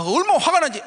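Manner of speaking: usual speaking voice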